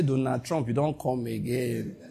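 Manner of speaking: low, slow mocking threat; mock menacing threat. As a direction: drawl it out like a sneering warning.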